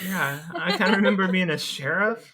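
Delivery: laughing. Real, not acted. Laughs while recalling.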